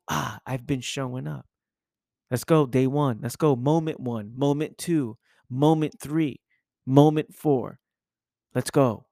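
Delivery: rising hype, moment by moment; hyped self-talk. Retold or imitated. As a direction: psych yourself up, count the moments off.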